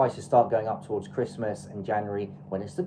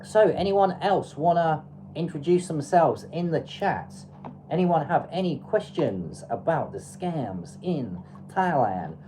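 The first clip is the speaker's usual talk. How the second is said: put-on a jokey, half-baked American accent, a bit higher; crap American accent; 4 semitones higher than usual. Asking the live chat for questions in a crap American accent. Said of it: "I'm speaking with a crap American accent".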